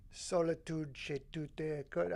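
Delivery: slow, halting Italian read; Italian accent. Acted. Streamer sounding out game text, slow Italian accent. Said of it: "I can make that accent".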